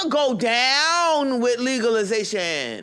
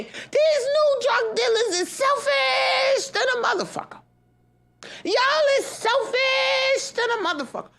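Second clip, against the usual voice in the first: slow, pitched-up whining rant at greedy dealers; high-pitched outraged wail; 13 semitones higher, slower than usual. Real, not acted. Ranting vlogger wails at selfish new dealers, high and slow. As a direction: cry out how selfish they are, voice strained high.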